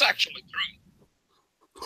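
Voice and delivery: hushed confiding whisper. Acted. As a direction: breathe it like a secret. Jokingly confirms rumor.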